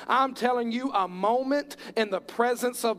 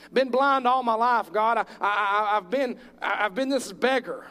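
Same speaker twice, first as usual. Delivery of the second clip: beggar's plea; 3 dB louder than usual. Acted. Beggar voiced crying to God.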